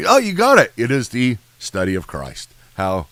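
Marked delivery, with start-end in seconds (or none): 0.1-0.7 mock amazement. Mock praise to class.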